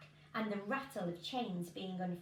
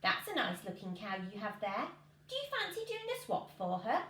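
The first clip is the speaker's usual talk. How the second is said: funny little man. Acted.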